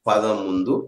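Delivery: slow and spaced, long pauses between phrases; slow dictation. Shown as a demonstration. Teacher spacing out the consonant rule for students, slow dictation. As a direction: lay out the rule piece by piece. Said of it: "అర్థమైంది కదా".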